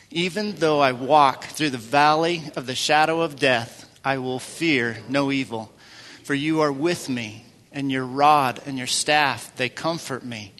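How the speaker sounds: slow, measured psalm reading; scripture reading. Acted. Pastor leads the congregation through Psalm twenty-three, slow and measured. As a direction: read each line slowly and reverently.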